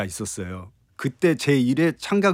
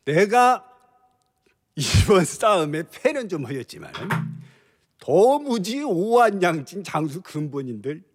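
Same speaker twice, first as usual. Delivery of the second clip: put-on lightly drunk general's voice; a hint of a tipsy, boastful general; drunk Cao Cao; 4 semitones higher than usual. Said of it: "술 취한 연기예요".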